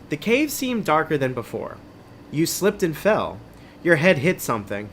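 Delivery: measured, dramatic adventure-book reading; story narration. A narrator's reading. Host reading an adventure book to listeners, story narration. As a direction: read it like a suspenseful tale.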